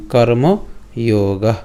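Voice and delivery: কর্মযোগা said slowly in Sanskrit, with a long o and a sounded final a; slow Sanskrit-style কর্মযোগা, final vowel fully voiced; Sanskrit pronunciation. Shown as a demonstration. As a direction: draw out কর্মযোগা syllable by syllable, ending on an open a. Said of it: "সংস্কৃতে যদি উচ্চারণ করি".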